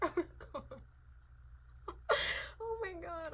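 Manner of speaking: high-pitched giddy oh my God; squealing overwhelm. Real, not acted.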